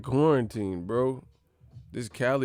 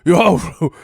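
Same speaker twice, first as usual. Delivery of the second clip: loud, high clown voice; Pennywise; 5 semitones higher, 10 dB louder than usual. Acted. Killer clown luring his victims, loud high creepy cry. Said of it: "when I be doing the Pennywise".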